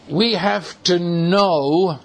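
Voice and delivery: slow, deliberate phrase landing on "know"; "know" held long as the key word; stress on know. Real, not acted. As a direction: lean on "know" and draw it out. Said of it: "and I emphasize that word".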